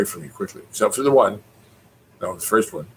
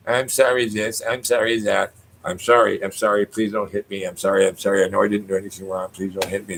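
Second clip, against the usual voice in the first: a hint of a cowering, over-apologetic Canadian; mock pleading, apologies tumbling out and fading; uptight Canadian. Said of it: "'cause Canadians are all uptight".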